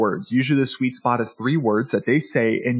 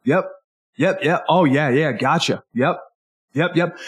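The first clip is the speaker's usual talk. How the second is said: over-eager listener. Retold or imitated. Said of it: "there's always that person when you talk with them and they're like".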